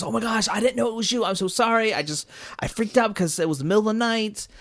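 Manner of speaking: fast, flustered apology in a light retelling; a hint of a panicked young man apologizing; apologetic Zuko. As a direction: rush out a sorry, mildly voiced. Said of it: "Zuko's so apologetic".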